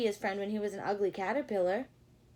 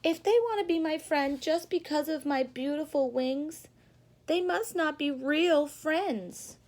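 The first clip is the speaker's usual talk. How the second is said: 1 thoughtful Charlie; 4 semitones higher, 5 dB louder than usual. Acted. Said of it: "thought Charlie".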